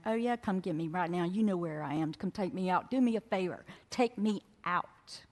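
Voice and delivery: retold angry dare, building toward the end; fist-shaking defiance. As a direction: dare God, slowing on the final demand. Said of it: "shook my fist at God and went".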